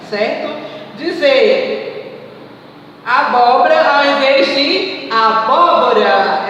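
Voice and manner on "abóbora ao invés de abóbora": abóbora said as "abobra" then with open ó; abóbora clipped, then full; sound contrast. Shown as a demonstration. Teacher showing the class the dropped syllable in abóbora. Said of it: "É o quê".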